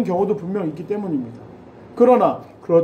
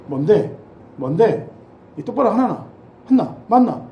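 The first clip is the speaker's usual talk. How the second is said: Gyeongsang sergeant; slower than usual. Retold or imitated. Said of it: "경상도 고참은요".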